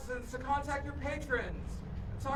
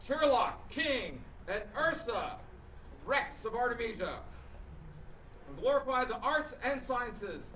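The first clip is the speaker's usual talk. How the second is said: measured herald's court proclamation; formal proclamation. Acted. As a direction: read it like a royal decree. Herald reads royal proclamation.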